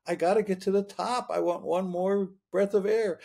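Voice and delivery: retold panicked protest, not shouted; desperate refusal. Arguing with the voice underwater.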